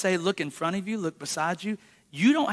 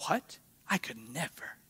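mock shocked refusal; 7 semitones lower, 11 dB quieter than usual. Mock horrified refusal to pray.

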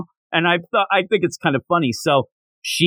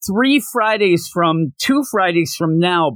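lightly raised, slowed fussy headmaster; imitating Headmaster Henderson; 5 semitones higher than usual. Co-host imitating the headmaster announcing exams, lightly mocking. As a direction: mimic the headmaster's roundabout date. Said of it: "so he's like".

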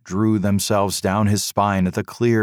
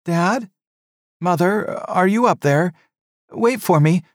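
higher, louder youthful call; young son calling; 11 semitones higher, 4 dB louder than usual. A narrator's reading. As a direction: son calls up to his parents, calling. Son calls up to parents.

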